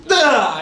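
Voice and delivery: loud, high mock strike noise; pretend attack cry. Reviewer pretending he was in this story, loud high attack cry. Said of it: "I would've been like".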